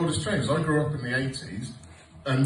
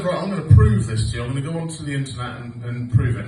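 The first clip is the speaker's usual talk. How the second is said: determined outburst; 8 dB louder, faster than usual. Retold or imitated. Determined to prove his point.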